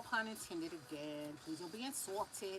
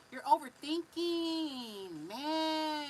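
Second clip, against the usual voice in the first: scolding call-out; 6 semitones higher, 5 dB louder, much slower than usual. Real, not acted. Reader scolds viewer playfully.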